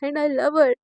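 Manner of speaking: half-shouts it slowly, pleading with father; retold shout. Daughter confessing love to her father, mild mock shout. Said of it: "चिल्ला के बोलती है".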